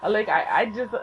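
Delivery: high, tumbling fangirl confession; acted-out starstruck gush. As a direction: blurt it out, tripping over your words. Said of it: "I'm gushing at this point".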